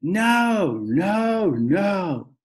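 loud, high repeated no's; hollering toddler. A narrator's reading. Little brother in a tantrum in the shoe store, hollering no. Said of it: "he hollered".

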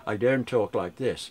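slow, over-careful proper diction, lightly done; mock proper speech. Shown as a demonstration. Mocking the critic who corrected his speech, slow and proper. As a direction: put on a correct-speaking voice, slowly. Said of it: "you're saying that absolutely correctly".

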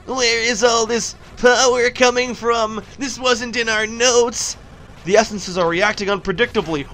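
lightly acted puzzled alarm; drawn-out question, then a worried report; game character voice. Characters baffled by the surging power, mildly alarmed. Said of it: "now I'm gonna do the voices".

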